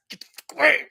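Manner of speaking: high, shrill mock outrage; shrieking church lady. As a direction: screech it like a furious church lady. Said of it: "they're like".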